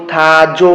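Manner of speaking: "থা জো" said loudly as two separate syllables; syllable-by-syllable demo. Shown as a demonstration. Teacher shows learners how the letters join into a word, syllable by syllable. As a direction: sound out "থা জো" in two clear, loud beats. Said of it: "তাহলে কি বো".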